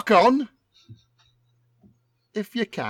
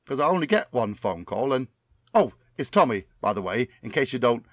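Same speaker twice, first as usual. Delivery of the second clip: Tommy Cannon impression. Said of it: "my memory of what Tommy Cannon sounds like".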